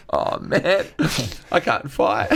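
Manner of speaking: high, panicky little voice; mock scared. Scared comic to the big miners, high and panicky. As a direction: squeak it out like you're about to get beaten up.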